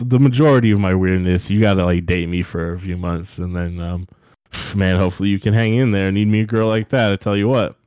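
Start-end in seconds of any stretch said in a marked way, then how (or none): 4.8-7.8 stuffy nose from a cold. Real, not acted. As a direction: talk through a blocked, stuffy nose. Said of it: "I'm sorry, I have a cold".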